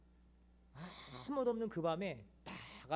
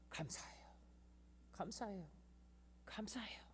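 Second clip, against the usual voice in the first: soft whispered thanks; 4 semitones higher, 14 dB quieter than usual. Retold or imitated. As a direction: breathe thanks in prayer. Tearful prayer of thanks.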